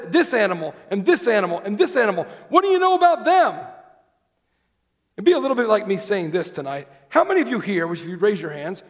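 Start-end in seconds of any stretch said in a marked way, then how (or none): 0.1-3.5 mock challenge. God challenging Job with questions.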